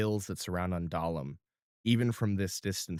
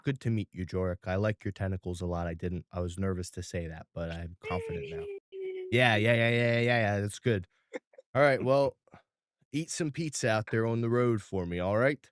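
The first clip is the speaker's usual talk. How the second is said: put-on excited little boy. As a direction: gush happily like a child. Ralphie's farewell.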